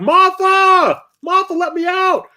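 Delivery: high, loud, desperate calls for his wife; hammed-up panicked cry for help; trapped man yelling. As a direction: yell for Martha like you're stuck inside the TV. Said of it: "the commercial going like".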